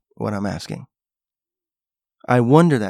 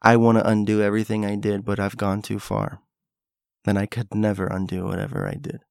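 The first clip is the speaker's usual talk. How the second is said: regretful villain; 2 semitones lower than usual. Retold or imitated. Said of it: "he sat there and he's like".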